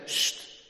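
unvoiced shushing hiss. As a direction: hush him sharply. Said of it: "mensen omheen die zeggen".

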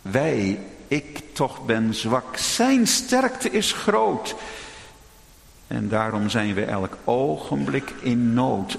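slow, solemn recital of a hymn verse; a preacher quoting the rhymed Lord's Prayer; recited hymn verse. Acted. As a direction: lay each line down slowly. Sung verse recited slowly.

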